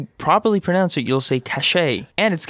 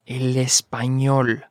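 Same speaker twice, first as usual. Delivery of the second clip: slow model; 2 semitones lower than usual. Shown as a demonstration. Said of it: "slow model for learners".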